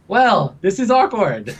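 slow, high, laughing through the words; drawn-out nervous giggle; awkward laugh. Acted. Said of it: "Connor's just like".

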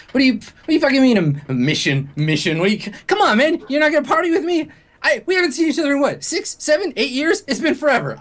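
put-on an old friend pulling you back in, high and eager; boisterous Vince. Party friend pleading with Higgs to stay, high boisterous voice.

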